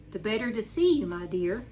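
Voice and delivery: sweetly. Acted. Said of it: "said the old wolf sweetly".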